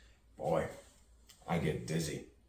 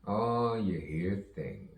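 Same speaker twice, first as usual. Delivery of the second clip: drawn out; 2 semitones higher, slower than usual. Acted. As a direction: stretch the words out slowly. Line repeated in contrasting delivery.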